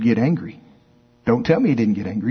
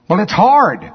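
whiny flesh; 6 semitones higher, 4 dB louder than usual. Acted. Flesh complaining.

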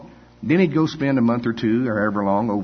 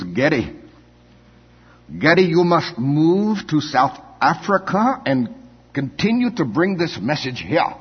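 put-on big Afrikaans man urging, higher and slow in an Afrikaans accent; 7 semitones higher, 4 dB louder, slower than usual. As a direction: put on a heavy Afrikaans accent, drawn out and pleading. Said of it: "I'm gonna use his accent now".

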